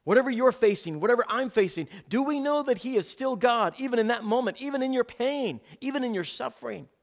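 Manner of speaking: high, loud pulpit cry; rising sermon fervour; full-force preaching. Acted. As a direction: preach it out to the whole room. Preaching climax, rhetorical questions.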